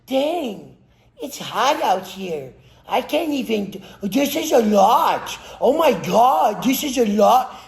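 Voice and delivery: hammed-up moaning about the heat; complaining weakling. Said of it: "sitting there going".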